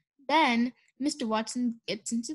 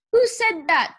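startled question, higher and louder; 5 semitones higher, 6 dB louder than usual. A narrator's reading. Mister Watson hears a voice from the back seat, startled. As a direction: demand it, taken by surprise.

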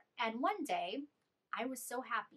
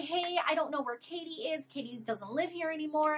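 higher, louder, nervous rush; flustered; 6 semitones higher, 5 dB louder than usual. Retold or imitated. Retelling herself fending off the boyfriend, flustered and high. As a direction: talk fast to get rid of him.

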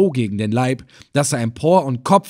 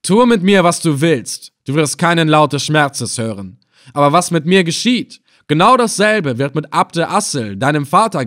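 firm, raised-voice threat from a captive; defiant warning; 4 semitones higher, 5 dB louder than usual. Acted. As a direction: stand up to the captor forcefully. Defiant captive threatens his captor.

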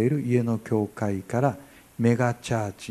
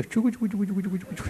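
fast, high mock murmur of quiet prayer; 9 semitones higher, much faster than usual. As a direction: chatter it quickly like soft mumbling prayers. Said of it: "って言ってるじゃない". (早口で高い小声のつぶやき祈りの真似)

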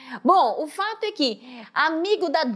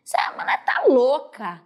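breathy whispered doubt; whispered scoff at the teacher; retold whisper. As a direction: whisper it like a sceptical student to yourself. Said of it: "eu fui uma dessas que falei".

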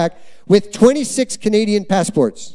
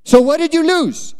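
put-on eager teen; 4 semitones higher than usual. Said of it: "And he says".

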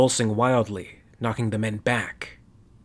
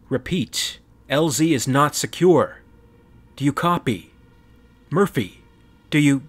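urgent radio call; 3 semitones higher, 5 dB louder than usual. Acted.

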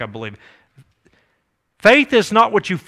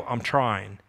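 low, much softer reply; small, subdued voice of someone making excuses; meek mock excuse; 8 semitones lower, 10 dB quieter than usual. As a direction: imitate a half-hearted excuse under your breath. Quotes people's weak answer to God.

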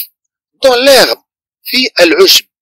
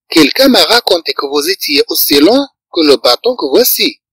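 slow dictation; 3 semitones higher, slower than usual. Shown as a demonstration. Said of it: "repeats sentence slowly for learners".

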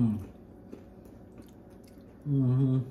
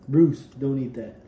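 sharp call to the dog; 7 dB louder than usual. Real, not acted. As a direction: stop him loudly. Warning a dog, calling out.

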